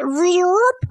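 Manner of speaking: a quick playful whooshing zoop; zoop sound effect. Retold or imitated. Kid showing Doctor Manhattan reassembling, with a playful zoop. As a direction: toss off a cartoon zoop as the body snaps back. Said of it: "like that".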